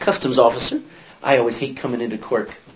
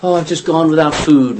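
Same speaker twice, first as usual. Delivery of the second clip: watered-down version; 4 dB louder than usual. Shown as a demonstration. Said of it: "see, this waters it down".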